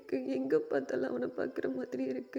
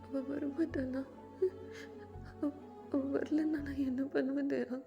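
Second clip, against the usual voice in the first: sobbing plea; 3 semitones higher than usual. Acted. Jameen crying in Daya's arms, broken and tearful. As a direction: fall apart in the hug.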